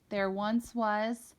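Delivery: slow, faltering words held back by tears; choked start. Acted. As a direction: begin the story, struggling to get the words out. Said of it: "forcing back tears".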